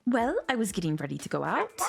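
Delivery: lightly put-on foreign accent for the wife; a hint of a German accent; wife's accent. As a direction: play the wife in a playful German-ish accent. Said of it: "Sorry for my terrible accent skills".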